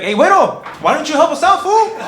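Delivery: loud, high angry shout; pissed cholo. Retold or imitated. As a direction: yell it at the useless neighbor. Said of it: "They're like".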